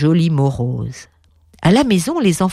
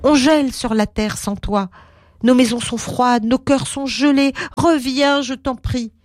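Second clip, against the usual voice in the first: pleading; 6 semitones higher than usual. Acted. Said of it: "supplia le petit garçon".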